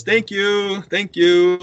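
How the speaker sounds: quick brushing-off thank you; dismissive. Retold or imitated. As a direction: wave him away with thanks. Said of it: "very, like, dismissive".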